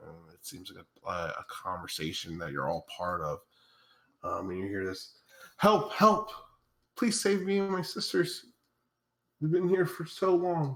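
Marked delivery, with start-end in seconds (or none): 5.6-10.8 very high, echoing pleading cry. Voicing a telepathic voice calling from a chasm: pleading for help. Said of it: "it's pleading for help right now".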